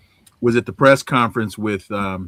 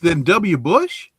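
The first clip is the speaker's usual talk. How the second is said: can't believe what he just heard; incredulous; 8 semitones higher than usual. Real, not acted. Disbelieving follow-up question.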